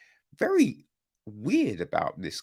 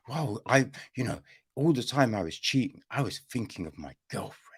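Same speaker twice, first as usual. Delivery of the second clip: fast mock excuse; 3 semitones lower, 5 dB quieter, faster than usual. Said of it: "this bullshit story that he gives".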